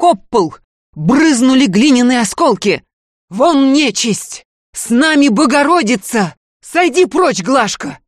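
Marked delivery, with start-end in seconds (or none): 3.3-8.0 put-on an old woman crying out in a strange hoarse voice. A narrator's reading. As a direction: cast the evil out with a shout. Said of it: "вскричала Шадриха хриплым чужим голосом".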